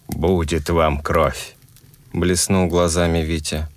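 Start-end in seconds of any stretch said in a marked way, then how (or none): 0.1-1.6 commanding and cold. Acted. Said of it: "властными и холодными".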